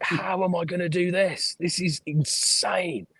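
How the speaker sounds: slow awed whisper; hushed overwhelmed whisper; whispered panic. Retold or imitated. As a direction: breathe it out in disbelief. Overwhelmed thought.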